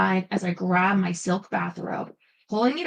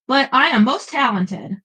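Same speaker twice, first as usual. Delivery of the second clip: put-on a light German accent, louder and indignant; German accent protest; 3 semitones higher, 5 dB louder than usual. Blonde night spirit protests to Ashley in a light German accent. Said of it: "protested in a heavy German accent".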